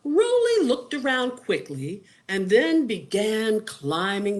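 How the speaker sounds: put-on lilting read-aloud for children; expressive picture-book narrator; story narration. A narrator's reading.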